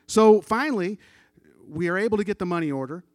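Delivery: loud, fast preacher's burst of triumph; preaching shout. Real, not acted. Preacher tells the congregation the good news, shouting. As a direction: belt it out like a rising sermon.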